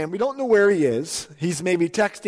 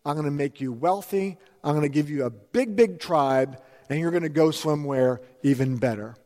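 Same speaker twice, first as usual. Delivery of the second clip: God's promise; 4 semitones lower than usual. Retold or imitated. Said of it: "he says".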